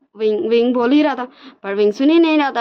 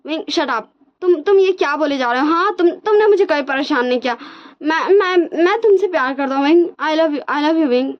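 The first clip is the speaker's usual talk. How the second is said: frantic confession; 5 semitones higher than usual. Retold or imitated. Wang ji stopping Wing's apology, high frantic confession. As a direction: pour out the confession.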